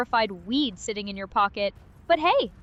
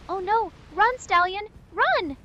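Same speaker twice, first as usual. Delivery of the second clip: high, loud urgent cry; urgent alarm; 8 semitones higher, 4 dB louder than usual. Acted. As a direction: yell at him to flee. Companion urges escape from bird.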